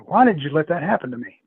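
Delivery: mildly accusing question; retold reproach. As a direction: demand an answer, still fairly contained. Retold upset woman waking up.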